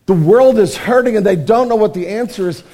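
ordinary delivery

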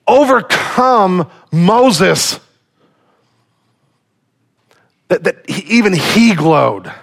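awed slow preaching. Real, not acted.

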